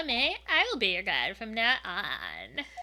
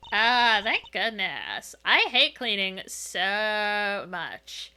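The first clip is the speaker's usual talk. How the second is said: put-on valley girl. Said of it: "I was dying to give someone my Valley Girl voice".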